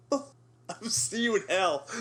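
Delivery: slow hammed-up villain line; mock villain threat. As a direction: drag out a playful evil threat.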